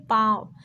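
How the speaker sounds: पाँव said through the nose on the आ; nasalised vowel. Shown as a demonstration. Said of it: "नाक से उच्चारित करना है". (पाँव का आ नाक से)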